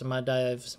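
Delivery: Maldives said as muh-DYVZ, with no L; alternative pronunciation. Shown as a demonstration. Game streamer puzzling over the title, Maldives pronounced muh-DYVZ. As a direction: drop the L in Maldives and rhyme it with hives. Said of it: "don't know how to pronounce".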